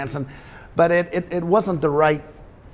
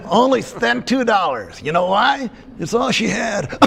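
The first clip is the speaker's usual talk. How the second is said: squeaky ventriloquist dummy; 6 semitones higher than usual. Acted. Dummy finishing the punchline.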